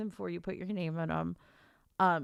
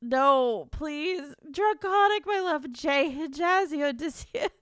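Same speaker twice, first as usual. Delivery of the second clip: loud, gushing roll call of names; flustered excitement; 3 semitones higher, 7 dB louder than usual. Real, not acted. Streamer greeting friends in chat, loud and gushing. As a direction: call out each name, loud and overwhelmed.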